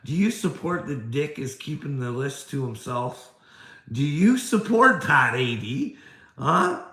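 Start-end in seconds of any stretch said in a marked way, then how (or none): 3.9-6.8 loud, hard demand; angry shout. Real, not acted. Ranting at critic A D, angry shout. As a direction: shout the question at him.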